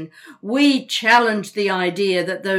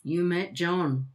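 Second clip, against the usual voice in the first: slow, pointed and knowing; mock-innocent insinuation; 3 semitones lower, 4 dB quieter, slower than usual. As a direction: lean on John with a loaded edge. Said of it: "That tone of voice".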